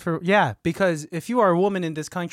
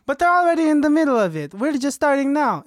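agitated; 6 semitones higher, faster than usual. Acted. Secretary arguing, pitched up.

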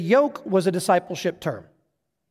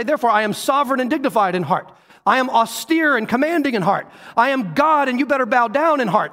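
imagined stern God; 5 semitones higher, 3 dB louder than usual. Pretend. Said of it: "that's the attitude you're expecting".

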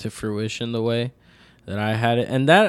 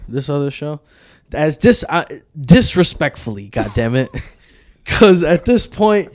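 wrestling promo. Acted. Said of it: "I'm about to cut a promo right here".

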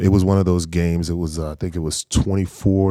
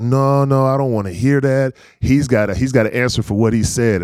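higher and louder, playfully stubborn; mock insistent; 6 semitones higher, 3 dB louder than usual. Nephew to auntie about his uncle, loud mock insistence. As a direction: refuse the excuse, laughing inside.

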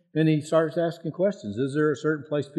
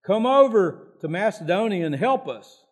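higher-pitched appeal, lightly acted; mild begging; 5 semitones higher than usual. Macedonian man appeals to Paul in a vision, mildly begging. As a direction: retell a plea for help. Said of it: "He's begging him".

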